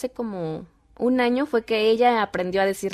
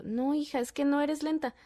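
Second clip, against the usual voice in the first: higher, softly placating mom; motherly reassurance; 5 semitones higher, 6 dB quieter than usual. Retold or imitated. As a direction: gently deny it to a child. Mother reassuring hurt daughter.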